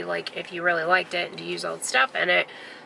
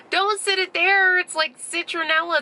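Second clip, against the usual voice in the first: retold protest; 9 semitones higher than usual. Objecting to candle on table.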